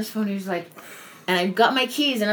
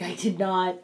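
whispered. Retold or imitated. Crying alone in car.

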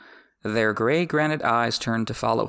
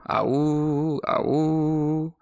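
long, held horn hoot; high sustained mock horn blast; imitated horn call; 5 semitones higher than usual. A narrator's reading. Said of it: "sounded his sentry's horn".

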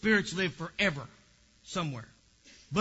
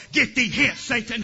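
laughing rebuke; 7 dB louder than usual. Acted. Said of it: "rebuking Satan, laughing".

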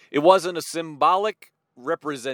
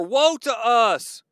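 mock wail; 4 semitones higher, slower than usual. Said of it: "And they said, quote".

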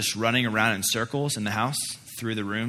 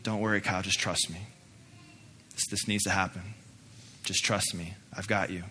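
tender reassurance; 6 dB quieter than usual. Retold or imitated. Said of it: "tears coming down his face, says".

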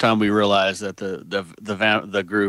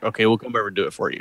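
matter-of-fact; 5 dB quieter, faster than usual. Retold or imitated. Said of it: "the most matter-of-fact thing in the world".

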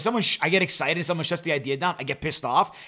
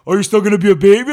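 mild mocking jab, a little louder; 6 dB louder than usual. Friend mocking his buddy on the beach, mocking. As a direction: tease him like a sulking baby. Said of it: "he's mocking me like he always does".

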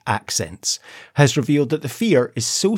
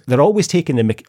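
put-on English accent, louder; 3 semitones higher, 5 dB louder, faster than usual. Host starts quoting Kirsty's complaint about brothers, English accent. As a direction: launch into a mock English accent. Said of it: "do an English accent for this".

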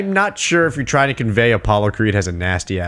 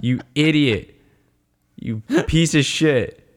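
exasperated coach. Acted. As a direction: space out the reproach to a hopeless fighter. Acting exasperated coach scolding Rocky.

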